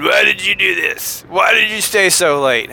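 a hint of an annoyed wife demanding answers; lightly voiced cross interrogation; mock mad wife. Imagined angry wife grilling him about staying late, mildly mock. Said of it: "how somebody who's mad at me talks in my mind".

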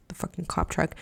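unvoiced aside under her breath; whisper. Real, not acted. Telling viewers about the cop truck, whispered. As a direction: whisper it like a secret.

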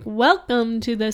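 lightly clowny announcer; a hint of a carnival barker; clowny radio voice. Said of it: "in a radio kind of voice".

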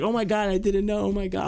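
high, hammed-up fake shock; mock surprise. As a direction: overplay the surprise sarcastically.

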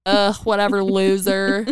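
sarcastic, condescending brush-off; Bad Janet. Host voices her bitchy inner devil, supremely sarcastic. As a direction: toss it off with bored contempt. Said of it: "It's just supremely sarcastic and condescending".

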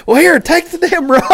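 high exasperated handoff; fed up. Retold or imitated. Angler handing the rod to his buddy, high exasperated. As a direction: shove the rod at him. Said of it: "I'm like".

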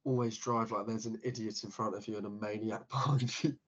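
holding it together, almost; trying not to laugh. Shown as a demonstration. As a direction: laugh slipping out mid-line. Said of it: "we gotta try not to laugh".

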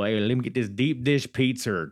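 badly faked Chicago accent; terrible Chicago accent. Shown as a demonstration. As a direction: put on a bad Chicago accent. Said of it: "That's a terrible Chicago accent".

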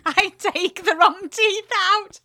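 laughing confession. Retold or imitated. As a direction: confess it while cracking up. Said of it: "starts laughing".

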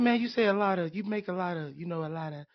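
lightly voiced Mike Tyson; a hint of Tyson's lisp, trailing off; Mike Tyson impression. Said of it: "I don't know why I'm talking like Mike Tyson".

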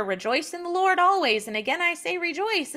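preachy verse quoting. Retold or imitated. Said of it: "Philippians four four".

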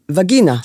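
וגינה stressed on the last syllable, va-gi-NA; וגינה with the stress on NA, her own way; final stress. Shown as a demonstration. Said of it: "הווגינה שלי היא במלרע".

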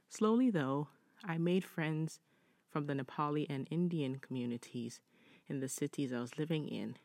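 measured read-aloud voice, lifting the start of each sentence; deliberate, well-paced reading of a written story. Acted. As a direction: read the letter out clearly, phrase by phrase. Reads listener's story.

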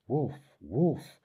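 high, loud cries of alarm; urgent high-pitched storybook yell. A narrator's reading. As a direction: yell it out to raise the village. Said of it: "Nico yelled".

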